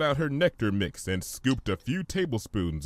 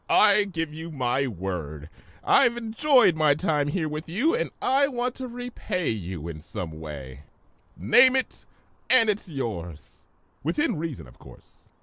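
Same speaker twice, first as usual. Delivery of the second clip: lightly voiced sincere trickster; Discord; 6 semitones higher than usual. Discord persuading Fluttershy, lightly voiced. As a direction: promise grandly, then a sly catch.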